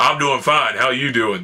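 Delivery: big brassy delivery. Speaker recalls answering a friend's quiet greeting; acting out own loud, brassy voice. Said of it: "Mister Big Brass, barrel chest, all loud".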